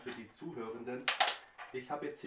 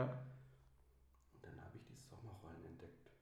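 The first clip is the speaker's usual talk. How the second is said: whispering; 7 semitones lower, 12 dB quieter, slower than usual. Real, not acted. Confiding aside while eating.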